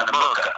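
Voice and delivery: "America" with a rounded "mor" sound. Retold or imitated. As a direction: say "America" like "Amorica", rounded o in the middle. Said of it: "they're doing it with a U".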